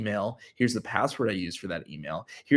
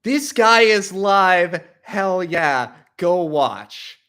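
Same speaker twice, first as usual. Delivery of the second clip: high, loud, drawn-out hype; hammed-up fanboy plug; loud promo shout; 8 semitones higher, 7 dB louder, much slower than usual. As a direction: imitate an over-keen promo video. His old promo video, acted out.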